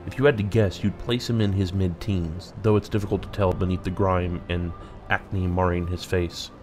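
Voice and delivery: measured game narrator reading; deliberate, emphatic storytelling; story narration. Acted. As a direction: read the scene out like a storyteller. Reads the game's narration.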